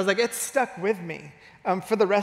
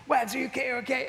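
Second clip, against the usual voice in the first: higher, urgent retold check; worried friend; 5 semitones higher, faster than usual. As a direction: imitate a concerned kid rushing over. Friend runs over to hurt boy.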